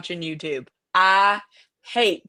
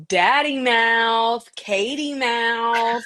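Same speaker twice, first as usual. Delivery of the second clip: stepson impression; 2 semitones higher, much slower than usual. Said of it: "My stepson says".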